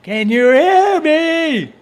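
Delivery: loud, slow barking sergeant; drill sergeant. Pretend. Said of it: "it's like a drill sergeant".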